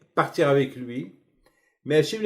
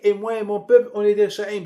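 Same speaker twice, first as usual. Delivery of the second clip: higher, imploring confession; pleading Pharaoh; 4 semitones higher than usual. Acted. Pharaoh confessing to Moses, pleading and higher. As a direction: admit guilt like a frightened king begging.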